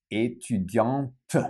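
étudiante ending on a clear T; étudiante said slowly with the final T pronounced; feminine with T. Shown as a demonstration. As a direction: sound the T at the end of étudiante. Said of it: "it's almost like the T".

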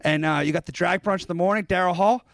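lightly put-on English accent, last words shouted; a brother-in-law's English accent, loosely imitated. Mock English brother-in-law teasing a singer about his bookings, English accent. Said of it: "his brother-in-law with his English accent".

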